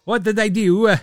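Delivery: lightly voiced confused player laughing; mock bewildered player. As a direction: play him baffled at being dumped. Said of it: "He's gonna be like".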